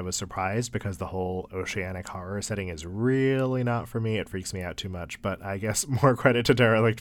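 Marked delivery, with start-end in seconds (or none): 5.4-7.0 laughing. Real, not acted. Laughs at own fear.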